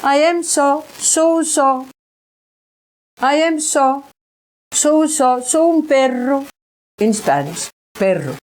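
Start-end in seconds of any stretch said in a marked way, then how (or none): 0.0-6.5 a bit higher, repeating it haltingly; imitating the spirit voice. Retelling what the dog's voice said, lightly higher. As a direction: echo the voice's odd halting words. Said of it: "This voice say, saying".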